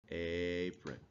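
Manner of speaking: "Apron" with a clear "ay" at the start; long A. Shown as a demonstration. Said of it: "a long vowel, you're gonna say the letter".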